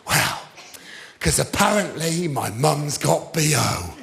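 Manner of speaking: low, quiet, reluctant reveal; sheepish explanation. Retold or imitated. Embarrassed man explaining his nickname, low and quiet. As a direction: mumble it apologetically. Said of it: "this is how he said it".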